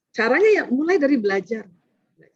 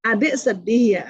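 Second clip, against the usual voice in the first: gentle validating; slower than usual. Shown as a demonstration. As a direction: say it gently, validating the child's feeling. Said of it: "Makanya bukan gitu nanyanya".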